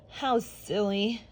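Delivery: slow, scornful sneer. Acted. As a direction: drawl it out with scorn. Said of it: "sneered the mer-, mermaid".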